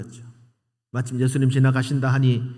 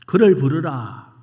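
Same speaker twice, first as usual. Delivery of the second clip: commanding; 5 dB louder, slower than usual. Retold or imitated. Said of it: "명령합니다".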